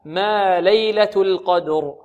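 ليلة القدر chanted slowly; slow recitation. Shown as a demonstration. (ترتيل بطيء)

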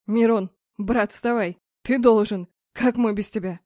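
loud pleading call to a friend; desperate shout. A narrator's reading. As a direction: shout him back to his feet. Friend begs fallen brother. (Артём кричит упавшему Мирону)

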